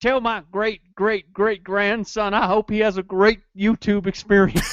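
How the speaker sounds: drawn-out, solemn mock oracle voice; slow mock prophecy. A mock prophet speaks to his descendant, slow and solemn. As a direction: intone it slowly like a prophet.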